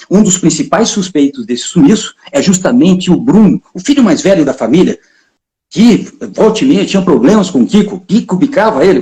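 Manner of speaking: mock-serious news reporter read; TV report stand-up. Reporter beside the perch reads the parrot story to camera as a grave news piece. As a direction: deliver it like a solemn missing-person report.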